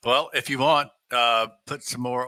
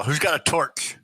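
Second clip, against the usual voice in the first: mild acted yell; 4 semitones higher than usual. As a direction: call out as a half-hearted yell. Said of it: "And I'll yell".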